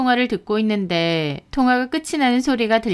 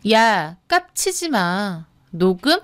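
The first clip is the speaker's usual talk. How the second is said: mocking, menacing warning; scornful intimidation; sneering threat. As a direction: gloat and threaten over a beaten opponent. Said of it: "비웃더라고요".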